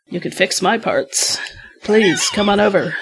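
slow, breathy come-on whisper; seductive whisper. Pretend. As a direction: coax her in a hushed, sultry voice. Flirting with the android, acted quote.

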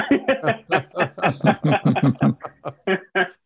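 a real laugh that climbs up; rising laugh. Real, not acted. Laughing at six thousand gallons with one customer. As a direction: laugh at the absurd stockpile.

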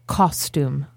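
"Costume" low, as "CAWS-toom"; correct "costume". Shown as a demonstration. Answering a friend's question, "Costume" said as "caws-toom". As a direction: round the first vowel of "Costume" to "aw". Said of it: "That's how you say it?".

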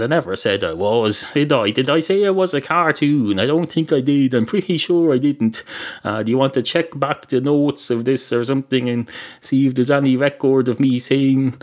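a touch of huffy self-defence; mildly defensive. Acted. Chicken disputes being called a cartoon.

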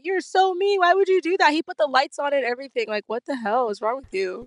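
high, mock-indignant scolding; retold scolding. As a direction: playfully yell at him in a squeaky voice. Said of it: "I was like".

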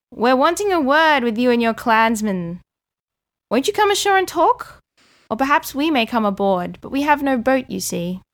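shouting back. Acted. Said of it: "who shouts back".

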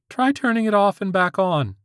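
put-on high squeaky teen voice; squeaky-voiced teen. A narrator's reading. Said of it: "the squeaky-voiced teen".

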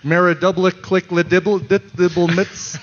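laughing gibberish said as if reversed; backwards speech. Pretend. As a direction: rattle off nonsense like a magic spell. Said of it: "If I say it backwards".

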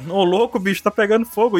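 leve imitação de apresentador de TV; bordão de auditório, um pouco mais agudo; Faustão. Retold or imitated. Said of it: "Faustão estaria maluco aqui". (imitação leve do Faustão)

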